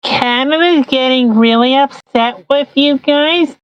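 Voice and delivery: put-on childish Trudeau voice. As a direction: play him like a whining child. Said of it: "Don't worry, little guy".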